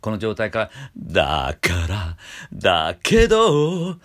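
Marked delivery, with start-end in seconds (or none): 2.5-3.9 だけど jumped straight in high and loud; だけど hit abruptly; sudden start. Shown as a demonstration. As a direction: attack だけど at once with no scoop. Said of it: "いきなりじゃなくて".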